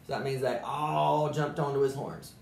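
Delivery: lively storybook narration; animated read-aloud; reading to children. A narrator's reading. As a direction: tell it like a bedtime story to kids. Reads Dr. Seuss story aloud.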